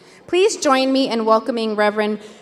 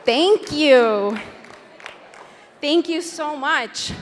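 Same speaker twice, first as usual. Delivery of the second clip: out of breath. Real, not acted. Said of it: "I apologize for the huffing and puffing".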